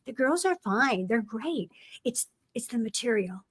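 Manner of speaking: quiet aside. Retold or imitated. Aside to director sitting beside her.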